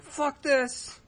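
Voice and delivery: replaying the moment of losing temper; retold blowup. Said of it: "I blow up and I'm like".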